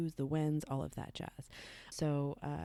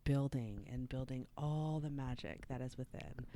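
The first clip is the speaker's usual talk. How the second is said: whispering; 3 semitones lower, 3 dB quieter than usual. Real, not acted. Whispered aside mid talk.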